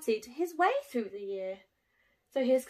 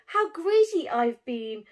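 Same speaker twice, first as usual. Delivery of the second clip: spluttering giggle; 3 semitones higher, 8 dB louder than usual. Acted. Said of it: "spluttered Bruce with a giggle".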